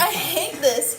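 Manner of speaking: high, drawn-out whine; whiny complaint. Real, not acted. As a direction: groan it out slowly in mock misery. Complains about the burp challenge.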